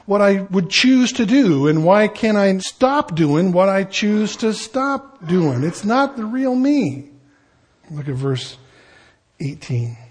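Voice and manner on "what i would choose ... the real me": higher-pitched exasperated prayer; mildly frustrated, pleading with God; frustrated plea. Acted. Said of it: "an expression of the frustration".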